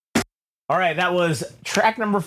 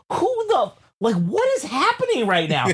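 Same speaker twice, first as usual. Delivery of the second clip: retold shock; 7 semitones higher than usual. Retold dream, panicked reaction.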